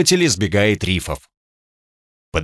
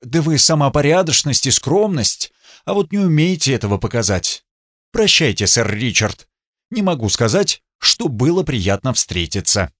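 cold; 3 semitones higher than usual. Acted. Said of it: "произнесла очень холодно".

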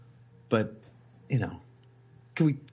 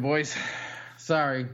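normal talking voice

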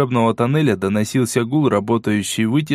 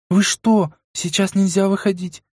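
put-on higher, alarmed girl's voice; frightened girl; 7 semitones higher than usual. A narrator's reading. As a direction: protest in fright. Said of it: "испуганным голосом зашептала та". (испуганным шёпотом)

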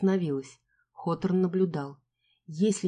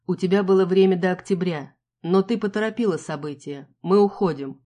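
commanding; 5 dB louder than usual. Acted. Hawthorne orders her out.

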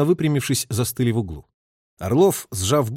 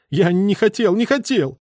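moaning plea; 8 semitones higher than usual. A narrator's reading. The prisoner moans his denial on the floor, desperate plea. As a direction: moan that he never wanted it. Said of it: "со стоном".

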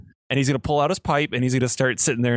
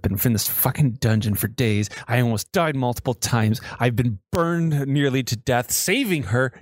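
grumbling to himself; 2 semitones lower than usual. Acted. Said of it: "sitting there grumbling to himself".

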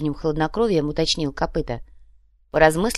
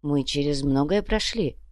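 sad; 3 semitones lower than usual. Acted. The man to his friend, slow and sad. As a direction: let it sink slowly. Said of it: "грустно произнёс чел".

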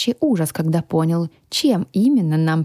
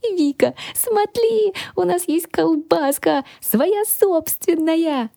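much higher, gleeful creature voice, slowing at the end; excited little dragon; 12 semitones higher, slower than usual. A narrator's reading. The dragon calls Vika to see their own sausage, much higher and gleeful. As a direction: bounce with joy showing Vika the sausage. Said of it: "завизжал дракон".

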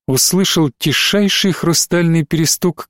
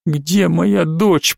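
whimper; 2 semitones higher, much slower than usual. Acted. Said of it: "проскулила Марина".

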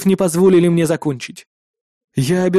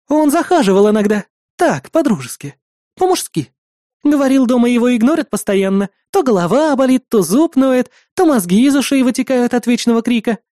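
higher, smug mocking telling; proud, mocking; 6 semitones higher than usual. A narrator's reading. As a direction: lift her head and gloat. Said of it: "гордо вскинув голову". (Магичка гордо насмехается над женой)

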